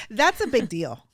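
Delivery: laughing with emotion. Real, not acted. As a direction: laugh the words out, overwhelmed. Laughing while moved.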